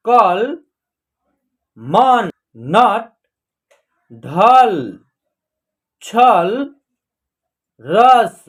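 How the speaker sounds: each word like "जल" as one emphatic syllable, long pauses between; direct word reading. Shown as a demonstration. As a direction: read out "डर", "चर" singly with no final vowel. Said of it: "अब हम direct पढ़ना आपको सिखाएंगे". ("जल", "कल" जैसे शब्द सीधे, रुक-रुककर)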